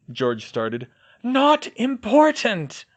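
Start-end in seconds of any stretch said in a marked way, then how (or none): 1.2-2.8 firm dismissal. A narrator's reading. Hermione repeats, more firmly.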